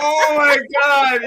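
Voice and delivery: cracking up, slow and loud; laughing shout. Real, not acted. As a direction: howl it through laughter. Cracking up at a joke.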